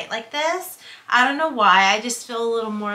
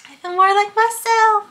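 excited; 12 semitones higher, 8 dB louder than usual. Real, not acted.

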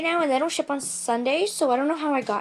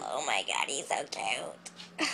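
soft coo; 10 semitones lower, 8 dB quieter, slower than usual. Real, not acted. Cooing at toy.

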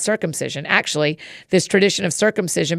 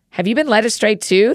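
mocking; 4 semitones higher than usual. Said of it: "the Pharisees mocked".

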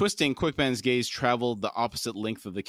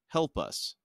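put-on childlike despair; 3 semitones higher than usual. A narrator's reading. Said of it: "In a childlike voice filled with despair".

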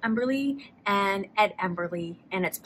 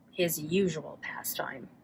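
whispered aside; 6 semitones lower, 8 dB quieter than usual. A narrator's reading. Aside in narration.

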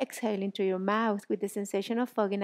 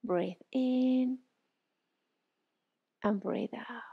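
guided breathing; slower than usual. Shown as a demonstration. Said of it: "breathe in and out through your nose".

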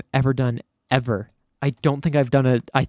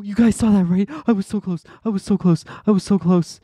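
excited disbelief; 7 semitones higher, 3 dB louder, faster than usual. Real, not acted. Tells viewers after near miss.

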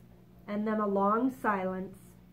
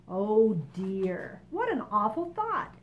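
kindly; slower than usual. Acted. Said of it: "the ladybug said kindly".

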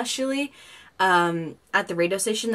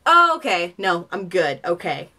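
relieved oh, okay; 5 dB louder than usual. Retold or imitated. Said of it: "I was like".

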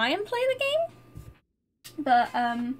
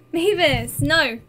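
scolding the cat; 8 dB louder, slower than usual. Real, not acted.

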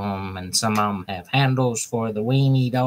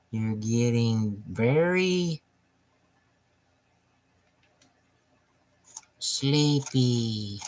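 mesmerizing; 3 dB quieter, much slower than usual. Pretend. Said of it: "Listen to my voice".

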